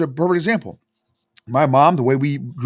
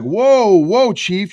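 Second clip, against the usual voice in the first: higher-pitched mock "hold on"; acted-out halting protest, pitched up; retold startled objection; 6 semitones higher, 4 dB louder, much slower than usual. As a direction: imitate a wife pulling him up short. Wife halting his yelling, retold.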